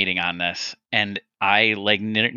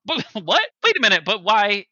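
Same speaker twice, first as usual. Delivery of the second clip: lifted high, mock-pitchy exchange; retelling a pitch meeting gag in a raised comic voice; acting out a pitch meeting; 9 semitones higher than usual. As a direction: play both sides of a silly pitch, voice pushed up. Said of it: "one of the things he's like".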